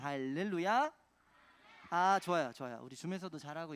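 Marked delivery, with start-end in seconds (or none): 0.0-0.9 drawn-out hallelujah, lifted at the end; big voice. Shown as a demonstration. Preacher has children repeat hallelujah, big voice. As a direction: lead the children in calling it out. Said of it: "큰 목소리로 다시 한번 해보는 거예요".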